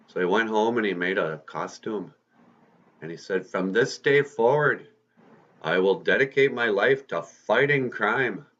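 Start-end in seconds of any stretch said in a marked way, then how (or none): 3.4-8.4 higher-pitched, acted heroic pledge; solemn vow. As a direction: declare it like a budding superhero. Peter's solemn hero's vow.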